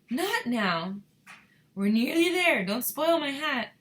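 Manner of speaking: high, loud pleading; urgent plea. A narrator's reading. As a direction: beg loudly to protect your hat. Wonka pleads for his hat.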